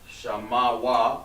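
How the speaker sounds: Shah ma wa said slowly, each syllable separate; slow spelling-out voice. Shown as a demonstration. Teacher sounding out letters while writing for the class. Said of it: "like that".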